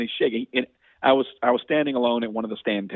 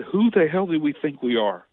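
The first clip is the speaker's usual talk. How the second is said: slow, rising, louder indignant plea; impassioned plea; 4 semitones higher, 3 dB louder than usual. Retold or imitated. Lawmaker pleading with Leland to help sick families, slow and impassioned. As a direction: plead slowly, building with outrage. Passionate retort recalled to Leland.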